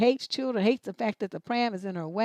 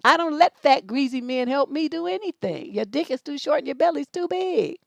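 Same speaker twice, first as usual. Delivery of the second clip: loud, higher mocking put-down; mock shouted retort; 4 semitones higher, 4 dB louder than usual. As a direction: fire back an insult. Host acting out retort.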